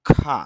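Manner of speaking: খা said with a strong puff of air on the k; aspirated kha. Shown as a demonstration. Teacher models the aspirated sound for students, puffed k. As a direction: breathe out hard on the খ in খা. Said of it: "এই কারণে হবে".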